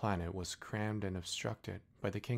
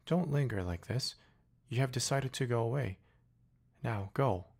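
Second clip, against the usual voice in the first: higher, firm flower voice holding back tears; the flower bravely dismissing him; proud flower sending him off; 4 semitones higher, 5 dB louder than usual. Acted. Flower sending the prince away, higher and firm. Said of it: "she did not want him to see her crying".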